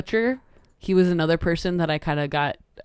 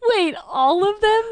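surprised; 12 semitones higher, 6 dB louder, slower than usual. Real, not acted. Surprised question.

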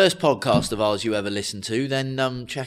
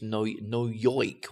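New York as "no yoik"; mock Brooklyn accent; 4 semitones lower, 5 dB quieter, much slower than usual. Host reminding co-host of her role, Brooklyn accent. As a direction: put on cartoon Brooklyn for "yoik". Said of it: "do a Brooklyn accent".

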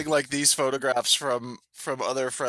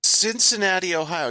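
higher and louder repeat over a bad mic; 8 semitones higher, 5 dB louder than usual. Real, not acted. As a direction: say Cincinnati again, higher and louder so it gets through. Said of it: "Your mic keeps cutting out".

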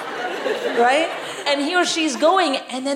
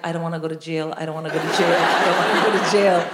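panicked inner voice; 6 semitones lower, faster than usual. Retold or imitated. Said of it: "In my head, I was like".

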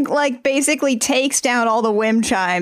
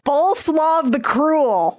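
dramatic announcer; 5 semitones higher, slower than usual. Pretend. Dramatic reveal of name.

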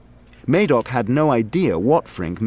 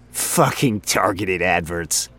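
slow, off-hand coworker voice with a silly hat; a rambling, self-amused office guy; chatty coworker voice, in a different timbre from the narrator; Frink, chatty coworker; slower than usual. Acted. Frink voice again.

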